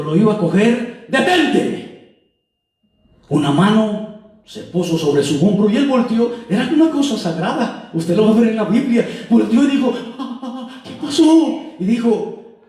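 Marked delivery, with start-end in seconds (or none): 1.1-2.2 high, sudden command to halt; orden de alto. Acted. A hand stops him taking bread. 10.2-11.6 acted startle. Startled man turns round.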